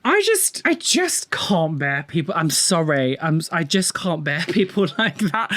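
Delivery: exasperated. Real, not acted. Exasperated reaction to pretentious clip.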